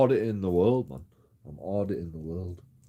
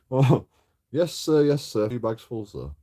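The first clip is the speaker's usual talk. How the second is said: higher, louder mock-obedient yes sir; mock servile; 3 semitones higher, 5 dB louder than usual. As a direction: ham up a fawning servant. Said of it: "Why don't you just say".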